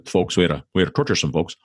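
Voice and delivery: lightly imitated presidential voice; a passing hint of a politician's folksy delivery; Barack Obama. Podcaster quotes the president, lightly imitating him. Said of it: "as Barack Obama likes to say".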